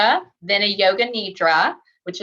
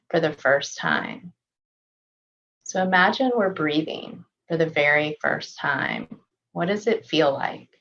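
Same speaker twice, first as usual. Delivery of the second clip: calm, measured meditation voice with long pauses; unhurried body-scan guidance, settled and even; guided meditation; 2 semitones lower than usual. Real, not acted. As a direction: gently guide them through a body scan, leaving space to breathe.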